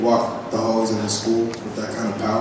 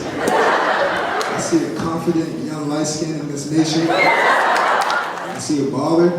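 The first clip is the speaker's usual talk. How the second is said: cocky boasting; 2 semitones higher, much slower than usual. Pretend. Boasting to mirror, laughing.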